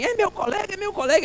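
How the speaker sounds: put-on very high, excited old man voice; old deaf pastor. Old pastor welcoming a fellow minister, high excited voice. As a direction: imitate a thrilled old man in a high pitch. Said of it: "ele disse assim".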